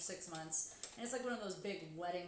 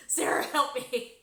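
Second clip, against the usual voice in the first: louder, slow hammed-up cry for help; mock plea; 5 semitones higher, 11 dB louder, slower than usual. Streamer on the ground calls to Sarah, slow and loud. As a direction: whine it from the floor.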